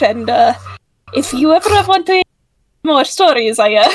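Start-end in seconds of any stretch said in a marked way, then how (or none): 1.1-4.0 put-on Italian accent. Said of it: "I slipped into the Italian voice".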